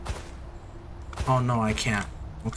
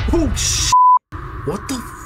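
scream into giggles; 13 semitones higher, 7 dB louder than usual. Real, not acted. Jump scare.

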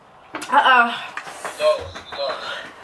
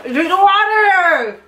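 slow, teasing drawn-out plea; slow drawn-out urging; 3 semitones higher, slower than usual. Real, not acted. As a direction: stretch every word slowly. Urging friend during spicy challenge.

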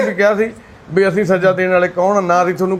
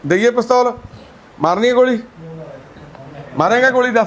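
higher-pitched mock-serious questioning; playful teasing; 4 semitones higher than usual. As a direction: tease an elder with a pretend dare, pitch lifted. Teasing old man about shooting. (ਉੱਚੀ ਸੁਰ ਵਿੱਚ ਮਜ਼ਾਕੀਆ ਛੇੜਛਾੜ)

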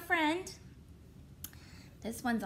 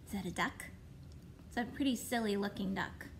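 put-on soft, playful voice for little kids; reading to a toddler; 5 semitones lower, 5 dB quieter, faster than usual. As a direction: coax the little ones along. Story time host to kids.

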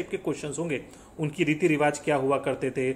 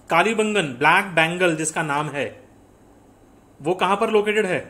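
loud quiz question; 6 dB louder than usual. Real, not acted. Teacher quizzing the class.

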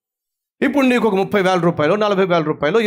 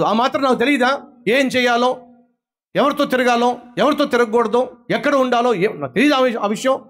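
mock yell at parents; 4 semitones higher than usual. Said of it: "గట్టి గట్టిగా అరిచేయడం".

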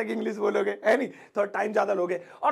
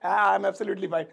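overacting; 2 semitones lower, much slower than usual. Shown as a demonstration. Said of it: "over acting जरूर लग रही है".

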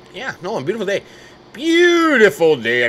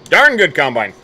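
punched out louder; proud exclamation; loud praise; 6 dB louder than usual. Real, not acted. Farmer proudly exclaiming about his combine, louder. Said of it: "repeated louder".

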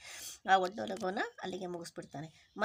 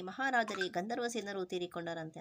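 mildly stretched words, as if breaking big news; lightly dramatic, tongue-stretched delivery; a hint of a gossiping minister's gasp; drawn-out sensational telling. Shown as a demonstration. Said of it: "ನಾಗೆ ಉದ್ದ ಚಾಚಿ ಮಾತಾಡ್ತಲ್ಲ, ಆ ಥರ ಮಾತಾಡ್ತಾ".

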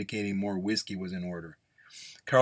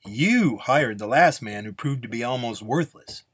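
louder, emphatic accusation; accusing nun; 3 semitones higher, 5 dB louder than usual. Acted. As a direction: lay the blame squarely on him. Nun accuses Carlsbad, pointing.

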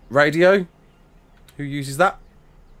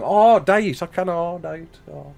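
put-on Black Country accent, trailing away; Yam Yam accent; 3 semitones higher, slower than usual. Shown as a demonstration. Streamer answers whether he speaks Yam Yam, Black Country accent. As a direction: dip into Yam Yam dialect. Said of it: "Can I speak yam yam?".

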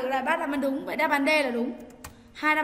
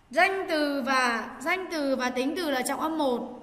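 slow emphatic rule; slower than usual. Shown as a demonstration. Teacher stating a stress rule.

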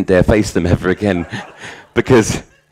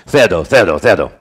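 retold kids' shout; 4 dB louder than usual. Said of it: "the kids all shouted out in Spanish".

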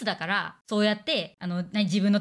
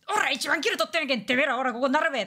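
mock thug boss; 3 semitones higher than usual. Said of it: "私もふざけて喋り出して".

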